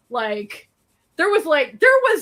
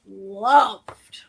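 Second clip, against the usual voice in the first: breathy whisper of one word; 6 semitones lower than usual. Real, not acted. Telling Lucy how her mom liked the show, whispered.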